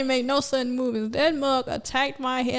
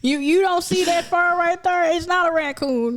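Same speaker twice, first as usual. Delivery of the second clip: raised, incredulous retort; retold incredulous question; 7 semitones higher, 3 dB louder than usual. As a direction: answer an obvious question in mock disbelief. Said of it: "everybody asked a rhetorical question".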